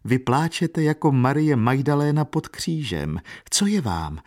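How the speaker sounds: put-on high-pitched, concerned old woman's outcry; alarmed exclamation. A narrator's reading. Old woman to weeping Katerina, alarmed exclamation. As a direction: exclaim high, then drop to ask. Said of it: "zvolala stařena".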